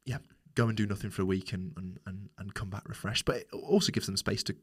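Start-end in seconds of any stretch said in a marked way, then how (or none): 0.0-3.2 whispering. Real, not acted. Whispered aside about resting.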